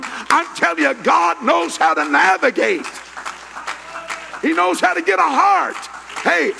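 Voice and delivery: high, impassioned Pentecostal preacher shout; full-force preaching. Real, not acted. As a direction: cry it out to the congregation.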